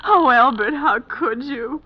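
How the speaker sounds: slow, crying reproach; tearful reproach. Acted. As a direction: drag it out through tears. Wife reproaching absent husband.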